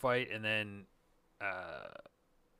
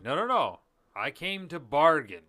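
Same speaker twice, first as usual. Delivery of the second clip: higher, louder stubborn no; firm refusal; 6 semitones higher, 11 dB louder than usual. Retold or imitated. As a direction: insist loudly, mock defiant. Strange refusing, retold.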